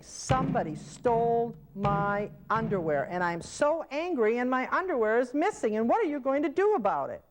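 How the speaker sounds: agitated, rising complaint, pitch climbing high; angry resident. Shown as a demonstration. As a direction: play the upset resident accusing everyone. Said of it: "I am very angry".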